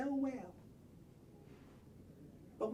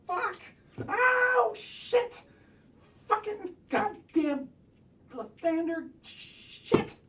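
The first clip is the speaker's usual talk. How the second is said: pained, loud cursing; 9 semitones higher, 6 dB louder, slower than usual. Real, not acted. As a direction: curse through real pain. Hurt himself, cursing.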